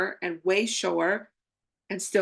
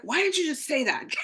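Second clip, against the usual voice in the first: laughing exasperation; 8 semitones higher than usual. Retold or imitated. Exasperated quote to own fear.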